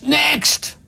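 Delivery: sharp, high, impatient call of next; curt shout. Retold or imitated. Teller calling the next customer, impatient shout. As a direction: bark it like a bored teller.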